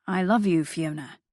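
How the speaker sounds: tender, a little confused plea; husband coaxing his wife at the end of the call, softly. Acted. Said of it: "his voice still soft, coaxing".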